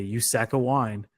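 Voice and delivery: slow, lightly imitated British accent; a hint of a bad British accent, drawn out; half-British accent, imitating a film line; Brad Pitt. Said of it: "that's the Brad Pitt British accent".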